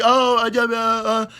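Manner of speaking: imitated incoherent mumbo jumbo; mock gibberish. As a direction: mimic someone making no sense. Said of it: "fucking gibberish".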